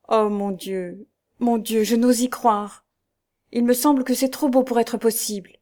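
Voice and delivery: understated, wondering disbelief; overwhelmed disbelief. A narrator's reading. Daughter hearing her father will be freed, wondering disbelief.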